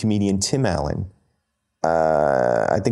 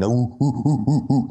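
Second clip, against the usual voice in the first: chest-beating caveman hoots; caveman hooting; 2 semitones higher than usual. Retold or imitated. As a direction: hoot like a proud caveman. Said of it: "make a caveman sound".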